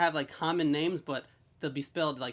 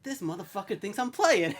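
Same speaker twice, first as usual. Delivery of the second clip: higher-pitched mock indignation; retold outrage; 5 semitones higher than usual. The speaker reading the reply back, mock outrage. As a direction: imitate a man riled by a text. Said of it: "He is just flipping out".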